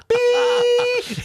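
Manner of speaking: high loud sung beep; censor beep. Shown as a demonstration. Comedian joking about bleeping the story, high beep. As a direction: hold a long high beep tone. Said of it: "we could beep it".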